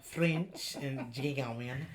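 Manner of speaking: slow, put-on German accent on French and German; mock German accent. Reading her ancestry in a German accent. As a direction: say it like a German would. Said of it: "The accent, please be so fucking for real".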